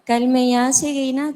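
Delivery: speaking up. Real, not acted. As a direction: raise the voice so all can hear. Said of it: "زور سے بولیں".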